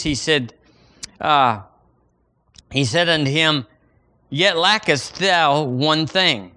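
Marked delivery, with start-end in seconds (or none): 4.3-6.5 scripture recitation. Shown as a demonstration. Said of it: "Say that with me".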